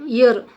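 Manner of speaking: ईयर said alone as a gliding ee-uh sound; teacher's emphatic model of ईयर; diphthong demo. Shown as a demonstration. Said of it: "ईयर की आवाज़ आती है".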